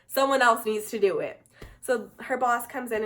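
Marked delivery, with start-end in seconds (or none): 0.1-1.4 louder, mildly exasperated retelling; fed-up mom. Retold or imitated. Mom to nurse about the failed IV, mildly fed up. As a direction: imitate a fed-up mom demanding someone competent. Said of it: "fed up, and she's like".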